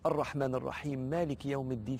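softly murmured, intimate prayer; soft, unburdening devotion; confiding in God. Shown as a demonstration. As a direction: pour your heart out quietly to God. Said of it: "شوف فضفض كده".

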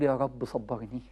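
low, soft, slow weary plea; exasperated sigh. Acted. Grown child sighing at parents' habits, exasperated. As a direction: drag it out like you're fed up.

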